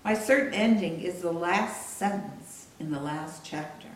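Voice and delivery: measured book reading with deliberate pauses; solemn literary reading, spaced out; author reading aloud. Acted. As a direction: read your own memoir aloud, phrase by phrase. Reads chapter aloud from her book.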